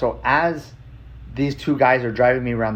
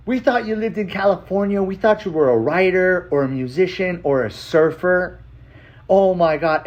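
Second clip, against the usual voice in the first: high-pitched excited retelling; amazed aunt; 6 semitones higher than usual. Retold or imitated. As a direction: gush like a relative who can't believe it. Aunt's amazed follow-up message, acted.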